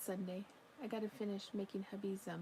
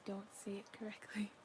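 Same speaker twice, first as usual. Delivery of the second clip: under-breath whispered dig; whispered aside; 6 dB quieter than usual. Real, not acted. To chat after being interrupted, a whispered aside.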